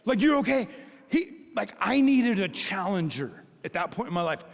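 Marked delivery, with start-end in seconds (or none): 0.2-0.7 high mock fussing question; coddling coach. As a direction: overdo the worried coach. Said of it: "what if my coach was like".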